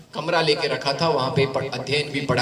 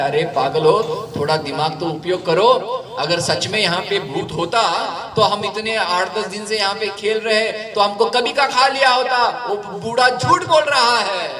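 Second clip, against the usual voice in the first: laughing; 6 semitones higher than usual. Acted. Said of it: "जोर जोर से हंस के कहता है".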